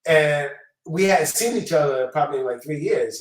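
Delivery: ordinary delivery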